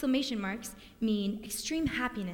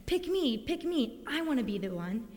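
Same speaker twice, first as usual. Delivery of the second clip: eager pleading. Retold or imitated. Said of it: "It's almost like he was saying".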